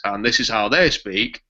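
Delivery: a light northern English accent on every word; a hint of a Yorkshire-style northern English accent. Shown as a demonstration. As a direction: speak it the way people in the north of England do. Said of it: "people in the north talk like this".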